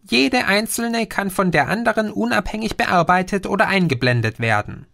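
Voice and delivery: a patient know-it-all explaining; Green's voice. Acted. (leicht höher gesprochener Außerirdischer, belehrend)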